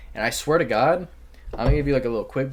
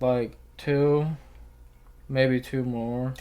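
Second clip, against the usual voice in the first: put-on drugged boyfriend; much slower than usual. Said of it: "dude's on four fucking Xans".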